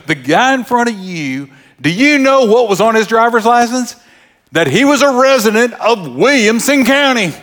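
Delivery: high-pitched mock-official woman; imitating the dump guard. Dump guard tells a driver who may dump here, imitated high officious voice. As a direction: lay down the county rules as a comic little gatekeeper. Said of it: "She talked like that".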